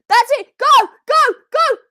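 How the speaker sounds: loud high urgent cheers; cheering on. Real, not acted. Fan urging Bronson on, loud excited cheering. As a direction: urge him on like a crowd.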